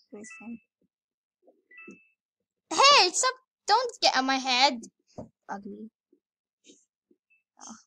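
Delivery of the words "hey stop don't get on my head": shouting. Real, not acted. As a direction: yell at them to stop. Calling out in game.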